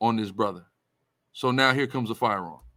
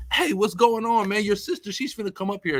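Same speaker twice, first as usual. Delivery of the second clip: higher-pitched greeting in a retold voice; sister's best friend; 8 semitones higher than usual. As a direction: imitate a friend calling hello, pitched up. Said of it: "My little sister's best friend just comes out".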